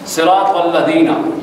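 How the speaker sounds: slow صراط with thick emphatic ط; drawn-out careful Arabic صراط الذین; correct tajweed. Shown as a demonstration. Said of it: "تو کے ساتھ ہے".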